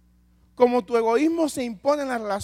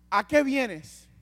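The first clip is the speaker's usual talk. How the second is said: confronting question; 4 semitones higher, 4 dB louder, much slower than usual. Acted. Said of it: "Jesús lo está confrontando con la verdad".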